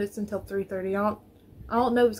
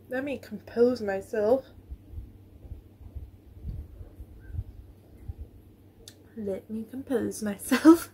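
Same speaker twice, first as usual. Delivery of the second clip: composing myself; slower than usual. Real, not acted.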